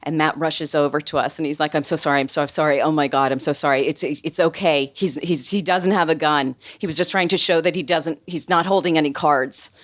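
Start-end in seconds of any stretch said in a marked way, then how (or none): 1.7-9.8 rushed, repeated apologizing; flustered apology. Retold or imitated. Matt apologizing to visitors after the yelling, flustered. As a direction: imitate someone hurrying to smooth things over.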